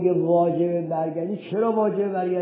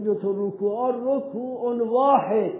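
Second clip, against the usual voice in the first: slow quoting of scholars; 3 semitones higher, slower than usual. Retold or imitated.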